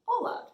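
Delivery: Hola high and loud in Spanish. Shown as a demonstration. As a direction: call out Hola to the kids. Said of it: "say it in Spanish".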